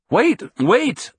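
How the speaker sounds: high-pitched frantic cry, held short of a scream. A narrator's reading. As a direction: call out in a panic, pitch jumping up. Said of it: "I screamed frantically".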